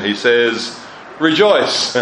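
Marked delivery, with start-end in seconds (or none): 1.2-2.0 a sudden high call of "Rejoice."; proclaimed rejoice. Acted. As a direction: lift "Rejoice." up like a joyful shout. Preacher proclaims scripture command.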